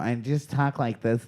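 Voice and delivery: soft lisping mom voice; mom impression. Shown as a demonstration. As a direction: talk with a little lisp like mom. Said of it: "I put a little lisp in my voice".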